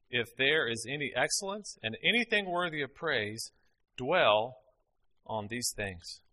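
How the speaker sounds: measured reading of a verse; scripture reading. Acted. Preacher reading Philippians to the congregation, measured. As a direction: read it with gentle weight.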